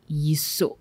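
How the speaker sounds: whispered approval. Retold or imitated. Mother approves son quietly.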